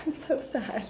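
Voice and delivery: high, laughing lament. Real, not acted. Vlogger reacting to tiny jewelry, laughing. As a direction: say it through helpless laughter. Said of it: "I'm, like, laughing".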